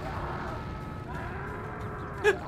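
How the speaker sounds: high, soft wheezy laugh; relieved laugh. Real, not acted. Player relieved the kid got away, laughing. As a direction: let out a long, breathy laugh. Laughing after near miss.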